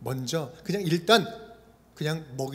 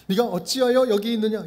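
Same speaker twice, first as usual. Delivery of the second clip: stern reproach, a bit louder; rebuking; 4 semitones higher, 5 dB louder than usual. Shown as a demonstration. God reproaching Elijah in the cave, stern rebuke. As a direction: scold him like a disappointed master. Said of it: "질책과 책망처럼 느껴집니다".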